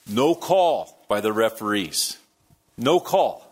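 hammed-up fan protest at the refs; mock outrage. Preacher retelling his outburst at the game, mock outrage. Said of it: "I am livid".

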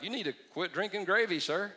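lightly teasing comeback; dry joking jab; mock retort. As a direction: throw it back at him, deadpan. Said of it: "I'll be like".

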